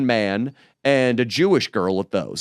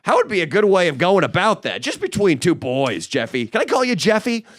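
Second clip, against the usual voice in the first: put-on schmooze him up like an old buddy; buddy-buddy schmoozer; 5 semitones higher than usual. Pretending to befriend Jeffrey as a pal, in a chummy, higher voice. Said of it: "That's how I wanted to approach this bum".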